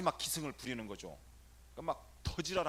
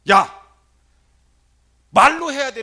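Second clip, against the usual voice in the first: sudden shout, much higher; loud scolding; 11 semitones higher, 23 dB louder, slower than usual. Retold or imitated. Priest shouting at the silent boy to speak.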